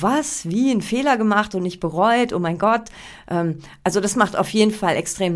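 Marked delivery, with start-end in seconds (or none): 0.0-2.9 higher-pitched mock disbelief; astonished thoughts. Coach voices the audience's thoughts on hearing the opener, mock astonishment. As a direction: imitate a baffled listener's popping questions. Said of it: "ploppen so Gedanken im Kopf auf".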